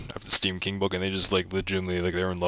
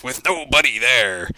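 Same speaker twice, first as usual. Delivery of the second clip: spooky; 5 semitones higher, slower than usual. Acted. Spooky tale of possessed car.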